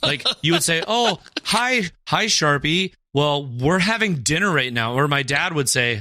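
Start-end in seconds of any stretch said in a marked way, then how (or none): 0.8-4.9 mock passive-aggressive Midwestern nice tone. Recalling how the family answered a phone call during dinner: mock Minnesota-nice tone. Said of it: "say it in a very Midwestern passive aggressive tone, Minnesota nice".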